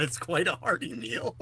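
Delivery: hammed-up slow recital; quoted commercial song line. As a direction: draw it out like a remembered jingle. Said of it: "I just remember that".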